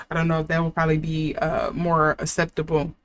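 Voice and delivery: hiccuping while talking; hiccups. Real, not acted. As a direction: talk through the hiccups. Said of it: "now I'm getting the hiccups".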